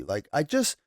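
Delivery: low, tired-of-it indifference; apathetic. Real, not acted. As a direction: shrug it off, voice dropping away. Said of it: "there's just a lot of apathy".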